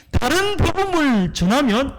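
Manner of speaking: Paul's stern warning voiced by the preacher. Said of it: "이렇게 강하게 말하고 있어요".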